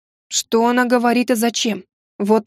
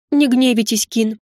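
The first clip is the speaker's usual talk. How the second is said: guilty bleat. Acted. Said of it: "виновато проблеяла Ирина".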